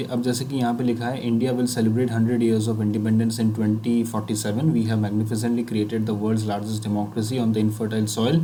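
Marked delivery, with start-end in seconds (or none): 1.3-8.4 slow, even reading aloud. Shown as a demonstration. Teacher reading the sample sentence slowly to students. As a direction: read it out slowly and evenly. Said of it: "तो यहाँ पे".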